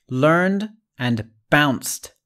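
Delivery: "Learned and bounced" drawn out slowly as single syllables; slow demo. Shown as a demonstration. Teacher slowly modelling one-syllable words for the class. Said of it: "These are one syllable words".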